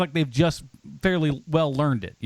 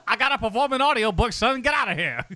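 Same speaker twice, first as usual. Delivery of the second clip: gruff dad; 4 semitones higher than usual. Pretend. Voicing the dad reply.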